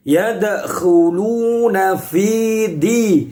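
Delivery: "di" with the "d" pressed firmly, not bounced; pressed dal. Shown as a demonstration. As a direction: press the "d" of "fi di" hard. ("fi di" dibaca ditekan)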